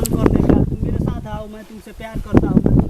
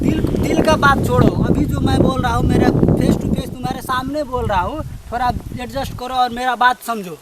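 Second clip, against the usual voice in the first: louder, pushing his case face to face; insistent loud pleading; 3 dB louder than usual. Acted. Pushy suitor talking over her hurt, loud and insistent. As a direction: override her objection with volume.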